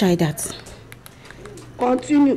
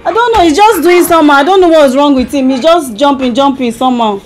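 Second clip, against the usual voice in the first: amnesiac confusion; faster than usual. Pretend. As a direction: sound lost with a child. Wife fakes amnesia prank call.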